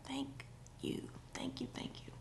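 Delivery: breathless unvoiced thank-yous; whispered thanks. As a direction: whisper it in relief. Grateful reaction to husband moving elf.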